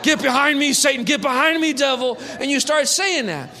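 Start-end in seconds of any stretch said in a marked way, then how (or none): 0.0-2.2 mock rebuke.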